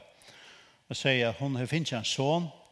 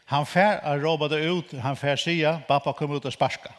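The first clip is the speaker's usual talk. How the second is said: proclaiming; 2 semitones higher, 5 dB louder than usual. Retold or imitated. Quoting prophecy, louder and slower.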